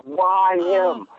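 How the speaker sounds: upset father. Retold or imitated. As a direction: lightly voice a tough dad in disbelief. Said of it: "he was so upset".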